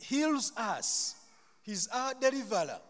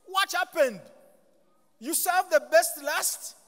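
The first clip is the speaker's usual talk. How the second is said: amazed question; 7 semitones higher, 6 dB louder than usual. Retold or imitated. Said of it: "And they ask".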